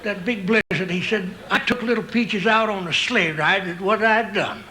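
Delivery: a hint of a grizzled ranch hand; old Western cowboy. Old cowboy reminiscing to his pal.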